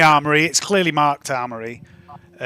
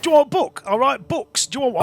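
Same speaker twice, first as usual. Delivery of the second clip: big rough man; 10 semitones higher than usual. Acted. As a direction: boom it out like a big coarse brute. GM repeats Les's offer.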